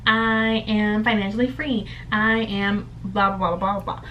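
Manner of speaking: slow, deliberate "I am" statements; slow affirmations. Shown as a demonstration. Showing viewers how to say affirmations, slow and deliberate. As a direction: recite each affirmation slowly, one by one. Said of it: "statements that start with "I am".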